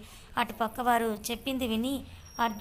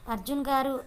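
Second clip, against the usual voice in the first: calling out loudly; 3 semitones higher than usual. Acted. Siri calling Arjun to look at her, calling out loudly. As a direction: raise the voice on గారు to get his attention. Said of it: "అబ్బా, ఎందుకే అంత గట్టిగా అరుస్తావు".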